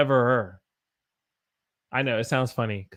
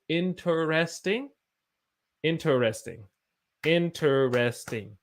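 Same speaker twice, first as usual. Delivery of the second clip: slow syllable demo; 3 semitones higher than usual. Shown as a demonstration. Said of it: "four syllables".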